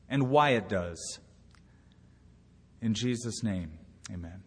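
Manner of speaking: hushed, earnest prayer voice. Real, not acted. Pastor prays aloud.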